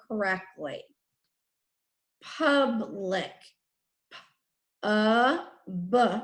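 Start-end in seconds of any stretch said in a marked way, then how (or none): 4.8-6.2 "P-U-B-L-I-C" as letter sounds, not names; sounded out. Shown as a demonstration. Teacher dictating a spelling word, "P-U-B-L-I-C" sounded out. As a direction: say each sound of "P-U-B-L-I-C" alone, with gaps.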